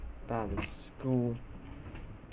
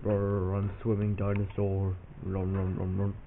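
slow, lower dinosaur voice with a mock growl; 3 semitones lower, slower than usual. Kid voices a giant underwater dinosaur, lower and slow. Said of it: "a giant dinosaur comes out of nowhere and goes".

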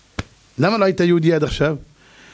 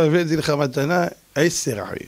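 slow, low and dry; sly low deadpan; 4 semitones lower, slower than usual. Acted. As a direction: say it slowly with a straight face. Moses answers Pharaoh slyly.

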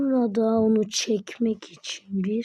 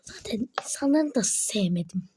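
whisper; 6 dB quieter than usual. Real, not acted. Villain aside.

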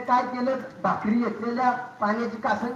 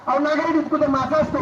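raised, loud scornful question; scoffing disbelief; 5 semitones higher, 4 dB louder, faster than usual. Acted. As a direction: scoff at the idea. Wife scoffs at husband.

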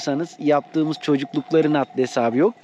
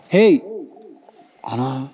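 shouting "Ana" for echo; calling out to hear echo; 5 semitones higher, slower than usual. Real, not acted. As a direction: yell "Ana" high into the valley. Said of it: "Yankı yapıyor".

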